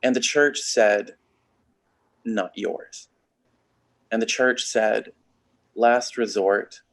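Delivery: deliberate spoken-word delivery with weighty pauses; poem recitation. Acted. Poet voicing the blood bank's gospel to an audience, poem recitation. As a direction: recite it in short, separated phrases.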